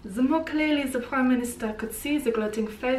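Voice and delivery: softly put-on French accent. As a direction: read it like a French speaker.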